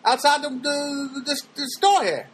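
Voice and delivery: high, fast smooth pickup-line voice; mock ladies' man sweet-talk; smooth-talker impression. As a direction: play the slick guy hitting on her, quick and high. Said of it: "then he goes".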